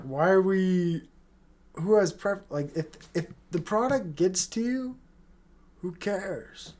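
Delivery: Will Smith's son. Real, not acted. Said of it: "do I sound like, uh, what's his name? Will Smith's son".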